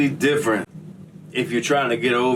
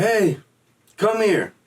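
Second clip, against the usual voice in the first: high, commanding guard call; 8 semitones higher, slower than usual. Retold or imitated. Guard orders the inmate back over the intercom, high commanding call. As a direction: summon him like a guard on the speaker.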